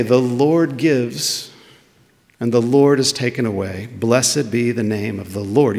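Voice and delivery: slow, reverent recital; quoting Job with calm faith; godly calm. Retold or imitated. Job accepting loss, slow and reverent. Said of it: "like a godly person would say".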